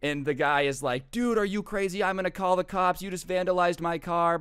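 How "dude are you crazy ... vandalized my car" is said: indignant protest. Retold or imitated. Driver threatens to call cops.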